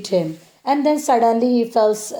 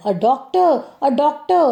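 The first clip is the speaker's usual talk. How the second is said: higher-pitched mock call for help; hammed-up shout; 5 semitones higher than usual. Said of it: "she starts to shout".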